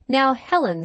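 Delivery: firm, emphatic opening on "Now, Helen". A narrator's reading. Husband cutting off his wife's reproach, emphatic. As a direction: put weight on "Now, Helen" as a warning. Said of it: "said he emphatically".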